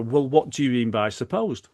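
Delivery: mildly defensive challenge, stress on "supposed"; a touch of defensiveness. Shown as a demonstration. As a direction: push back on "supposed". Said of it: "Which sounds defensive".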